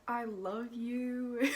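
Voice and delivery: slow, drawn-out mock declaration; mock lovey-dovey. Storyteller reads out boyfriend's texts to the other girl, mocking. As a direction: stretch every word, making fun of the sweet talk.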